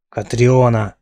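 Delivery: name growled out in mild anger; understated angry growl on Катриона. Acted. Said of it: "прорычал медноволосый".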